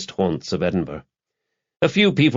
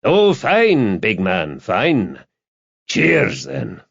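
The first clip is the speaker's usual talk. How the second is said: relieved bar reply; 4 semitones higher, much slower than usual. A narrator's reading. Stevens sees the big man off, relieved. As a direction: play eager relief, falling away at the end.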